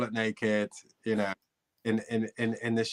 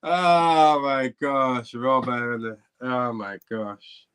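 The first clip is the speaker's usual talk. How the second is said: amused groan; 5 dB louder, much slower than usual. Real, not acted. Reacting to the hose story.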